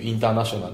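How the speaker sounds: "インターナショナル" with the stress on "ター"; stressed word. Shown as a demonstration. Teacher introducing the example word with stress. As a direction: punch "ター" in "インターナショナル". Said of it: "インターナショナルっていう言葉があったとする".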